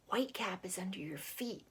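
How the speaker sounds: soft secretive whisper. Acted. Katie whispering a warning to Jackie. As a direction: tell him quietly, don't be overheard. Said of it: "Katie whispered".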